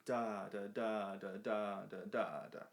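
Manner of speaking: long-short da da; swung syllables. Shown as a demonstration. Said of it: "the first eighth note ... was a little bit longer".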